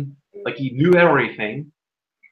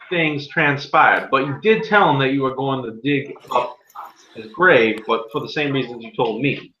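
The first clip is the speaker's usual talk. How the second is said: a hint of a pompous judge; lightly voiced small-town judge; stern judge. Game master continues as judge.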